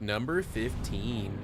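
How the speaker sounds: slow deadpan meme voice; imitating a meme voice. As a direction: drag out each word slowly. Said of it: "He's not the one that's like".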